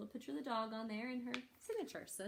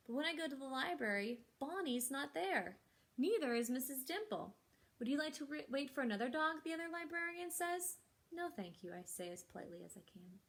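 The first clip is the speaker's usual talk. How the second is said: lively, expressive picture-book reading; reading to children. Acted. Librarian reads the story to children, animated storytelling. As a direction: bring each line to life for the kids.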